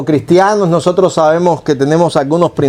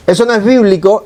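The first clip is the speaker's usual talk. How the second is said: accusing intonation; 4 semitones higher than usual. Shown as a demonstration. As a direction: condemn the listener with the tune. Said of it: "disculpen, la entonación". (entonación acusadora, de juicio)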